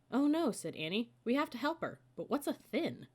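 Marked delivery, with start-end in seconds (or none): 0.1-0.5 high, loud gasp of alarm; alarmed cry. Acted. Annie reading Morgan's note, alarmed cry. 1.2-3.1 eager. Acted. Annie eager to help.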